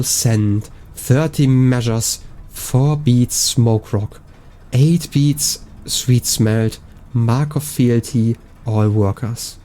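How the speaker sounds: slow, deliberate inscription reading; slow reading aloud. Acted. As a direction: read each phrase out slowly. Reads an in-game inscription.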